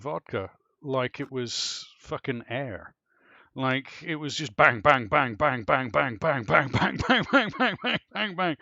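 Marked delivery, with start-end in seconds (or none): 4.6-8.6 loud, excited bang after bang; rapid shots. Real, not acted. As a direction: pound out each bang like downing a shot. Rapid-fire shots, mounting excitement.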